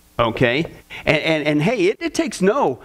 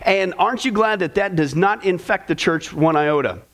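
dry, heavily sarcastic question; heavy sarcasm. Acted. Pastor mocking the church's worldliness, heavy sarcasm. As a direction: let the sarcasm drip off every word. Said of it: "I'm being heavily sarcastic tonight".

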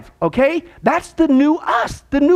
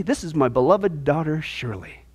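loving introduction; 8 semitones lower, 5 dB quieter than usual. Pretend. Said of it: "are you kidding me".

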